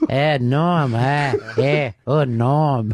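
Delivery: low, grunted parody of a friend's impression; mocking bad impression. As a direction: chop it into lame little grunts, mocking. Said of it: "so that was bad".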